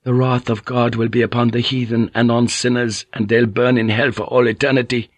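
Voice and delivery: lightly voiced fervent doomsayer; pious zealot. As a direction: pronounce damnation with a touch of preaching fervour. Pious Jan Roper condemning sinners.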